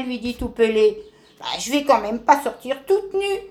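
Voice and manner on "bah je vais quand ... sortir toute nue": a touch of cross grumbling; understated angry tortoise; mild anger. Acted. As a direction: grumble back, lightly annoyed. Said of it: "lui répond Rhume Bizarre en colère".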